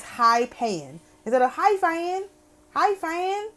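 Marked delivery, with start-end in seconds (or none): 1.5-3.5 Hi, Fan in a Deep South drawl, pitched higher and softer; Hi, Fan said like a Southern country man calling out; Deep South accent. Shown as a demonstration. Demonstrating High Paean as Hi, Fan in a Deep South accent. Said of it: "That sound like Deep South to me".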